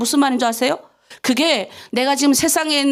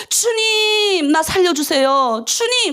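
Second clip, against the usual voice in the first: slow, high, tearful plea; pleading cry; 6 semitones higher, much slower than usual. Shown as a demonstration. Pastor modelling a desperate spoken prayer, crying out. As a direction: beg the Lord with a cry in the voice.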